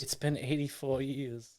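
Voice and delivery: put-on slow, hushed old-lady quote; wistful elderly Rose, lightly voiced; old Rose from Titanic. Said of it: "my rose from Titanic".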